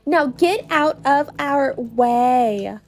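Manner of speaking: Goombella sassy. Acted.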